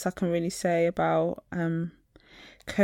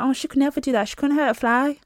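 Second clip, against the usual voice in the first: higher, sing-song voice of a gullible colleague; mock naive coworker; 6 semitones higher than usual. Mocking coworkers defending the nurse, higher sing-song voice. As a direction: play the coworker who can't believe it. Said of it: "They'd be like".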